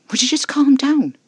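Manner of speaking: high, loud, pleading; exasperated shout. A narrator's reading. Narrator shouting at Casper to calm down. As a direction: push him to calm down.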